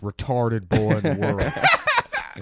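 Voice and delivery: loud, high, far-off mock dad voice, building; prank caller. Prank-calling the record people about his son, high and loud. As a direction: ham it up like a proud dad on the phone. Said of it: "call them up and just be like".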